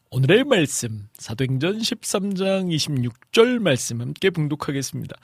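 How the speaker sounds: lightly imitated dubbing-style Bible announcement; a touch of foreign-film dubbing formality; voice-actor scripture reading impression. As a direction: mimic a voice actor introducing scripture. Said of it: "막 이런 식으로".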